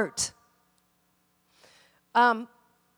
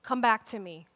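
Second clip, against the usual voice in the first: tender pleading; 3 semitones lower, 5 dB quieter than usual. Retold or imitated. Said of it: "he's crying out for this dictator".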